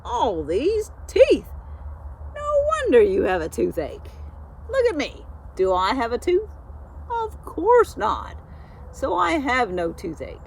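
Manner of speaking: high, loud busybody goose voice, pushing her cure; a proud goose lecturing a sick horse, high and loud; bossy know-it-all goose. Acted. Petunia lecturing Straw about his teeth, in a high bossy goose voice.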